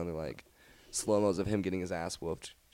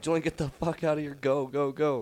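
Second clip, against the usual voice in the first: higher-pitched retold urging; urgent order; 6 semitones higher than usual. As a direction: hurry a friend out, voice raised in pitch. Ordering friend out as water sprays.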